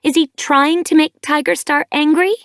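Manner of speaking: a daughter raging at her mother; rising rant. A narrator's reading. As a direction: pile accusation on accusation. Furious daughter rants at mother.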